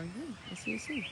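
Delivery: ordinary talk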